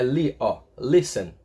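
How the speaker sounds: listen stressed on its first syllable, LIS. Shown as a demonstration. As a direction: lean on the "li" of listen, not the "ten". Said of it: "qual que é a sílaba mais forte".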